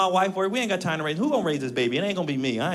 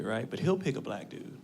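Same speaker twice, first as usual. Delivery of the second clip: normal talking voice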